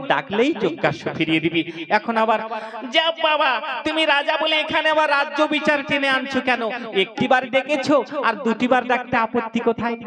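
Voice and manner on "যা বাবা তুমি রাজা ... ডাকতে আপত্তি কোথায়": put-on defiant boys. Boys defy king Rama.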